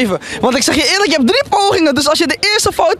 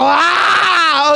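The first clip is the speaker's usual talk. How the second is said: drawn-out hype yell; excited yell; 3 semitones higher than usual. Acted. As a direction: open the show with a big "aah". Host opens game with a yell.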